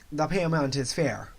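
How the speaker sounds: badly faked Jamaican accent; amateur Jamaican accent for a film role; terrible Jamaican accent. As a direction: have a clumsy go at a Jamaican accent. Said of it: "I'm gonna do a terrible Jamaican accent".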